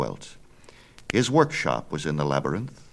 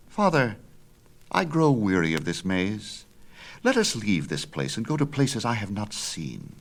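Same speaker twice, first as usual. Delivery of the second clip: a lightly voiced restless boy, a bit higher; young son pleading to leave, lightly higher; eager young Icarus; 4 semitones higher than usual. Son tells his father he is weary, eager boy.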